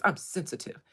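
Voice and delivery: lightly imitated African accent; low-key African-accented impression. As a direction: retell it with a hint of an African accent. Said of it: "said it in his African voice".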